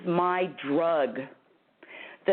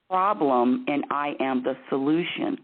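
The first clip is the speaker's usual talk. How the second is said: firm, deliberate coaching demonstration; pushy, bossy; 3 semitones lower than usual. Shown as a demonstration. Bossy host showing a caller how to say it, pushy. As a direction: state it bossily, each phrase spelled out. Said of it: "I'm gonna be really pushy and really bossy".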